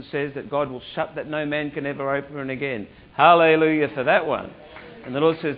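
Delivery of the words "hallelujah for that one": loud praise. Real, not acted. Preacher exclaims in praise.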